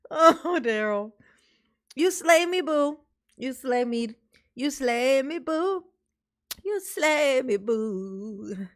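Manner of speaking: lightly voiced swooning admirer, drawn out; mock flirty woman. Vlogger mocks a woman swooning over Daryl, teasing coo. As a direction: coo at him teasingly, a hint of a lover.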